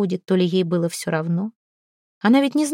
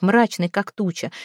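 usual speaking voice

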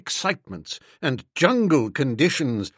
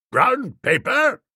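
incredulous; 8 semitones higher, 3 dB louder, slower than usual. Acted. Baffled echo of a clue.

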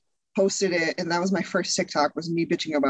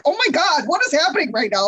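alternating two voices; 9 semitones higher, 4 dB louder than usual. Retold or imitated. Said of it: "And they were just like".

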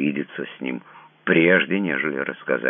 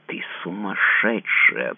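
hissed insult; 7 semitones higher, slower than usual. A narrator's reading. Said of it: "прошипел он".

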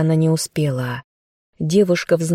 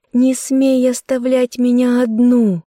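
hysterical cry; 8 semitones higher than usual. Acted. У девушки началась истерика.

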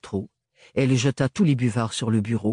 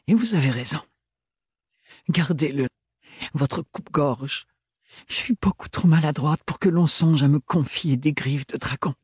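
voiced higher, edged young woman's reproach; Ophélie, tense young woman; 5 semitones higher than usual. A narrator's reading. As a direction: lift the voice for a proud, hurt young woman. Ophélie, bitter and self-mocking. (jeune femme blessée et fière, voix plus aiguë)

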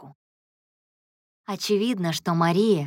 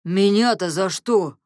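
timid; 3 semitones higher, 4 dB louder than usual. A narrator's reading. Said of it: "оробел Ганс".

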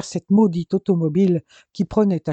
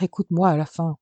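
insistent, near the end of patience; exasperated plea; faster than usual. Acted. Jordan insists his father finally listen, exasperated. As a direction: demand to be heard at last. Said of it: "cria Jordan à bout de nerfs".

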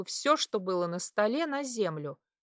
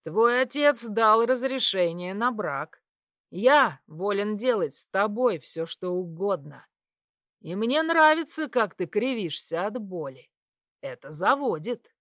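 gloating; 4 dB louder than usual. Acted. Suitor gloats over her pain.

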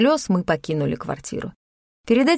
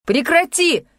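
sharp shout much higher; 9 semitones higher, slower than usual. A narrator's reading. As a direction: cry it out to stop her. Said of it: "выкрикнул он".

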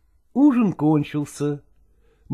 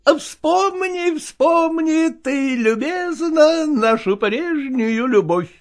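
slow, raised sing-song recital; declaiming; 9 semitones higher, slower than usual. Acted. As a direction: recite it like a mock romance. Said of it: "продекламировал Иван".

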